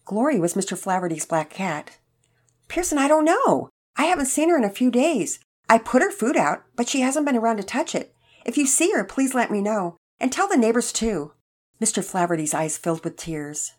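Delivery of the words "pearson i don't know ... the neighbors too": put-on higher, louder elderly voice, troubled; worried elderly man. A narrator's reading. Elderly man asking a boy about his lost cat, worried. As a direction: voice an anxious old cat owner.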